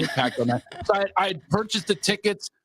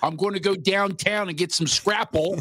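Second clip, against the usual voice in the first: mock New York accent; 3 semitones higher than usual. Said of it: "doing New York over here".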